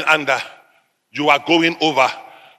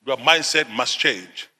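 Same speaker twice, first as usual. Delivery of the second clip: low, soft pulpit statement; subdued, serious exhortation; quiet insistence; 4 semitones lower, 6 dB quieter than usual. Real, not acted. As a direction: say it gravely and quietly, letting it sink in. Preacher repeats it softly.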